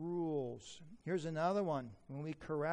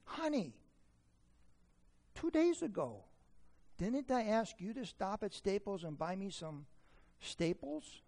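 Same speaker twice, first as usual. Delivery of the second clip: mock loving; 2 semitones higher than usual. Husband reminding wife about staples, mock loving. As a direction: coo it with pointed sweetness. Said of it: "I lovingly would say".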